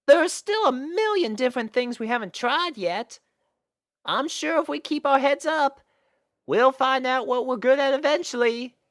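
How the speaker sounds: high, hopeful filly voice; encouraging farm filly. Acted. Apple Bloom encouraging her friends, hopeful high filly voice. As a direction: cheer your friends on.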